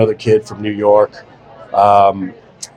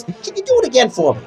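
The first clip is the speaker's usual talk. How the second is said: casting director voice; 10 semitones higher, 3 dB quieter than usual. Retold or imitated. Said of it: "she goes".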